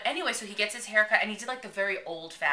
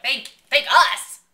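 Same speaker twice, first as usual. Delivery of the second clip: loud, high, drawn-out incredulous outburst; flustered disbelief; 7 semitones higher, 11 dB louder, slower than usual. Retold or imitated. Fans answering the swimmer's thanks, flustered disbelief. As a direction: sputter in mock amazement at being thanked.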